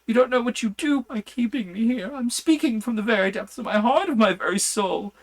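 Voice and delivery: high, loud frantic begging; a madman begging on his knees for release; desperate pleading. A narrator's reading. Madman on his knees begging the doctor to free him, frantic high pleas. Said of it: "poured forth a torrent of entreaty, with tears rolling".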